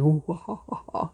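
mock-scary wavering devil howl; hammed-up spooky "woo-ha-ha"; spooky noise. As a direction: imitate a ghostly, scary noise. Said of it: "make scary noises".

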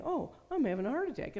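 high, fast retold panic; mock alarm. Woman alone in the car with a pounding heart, re-enacted alarm.

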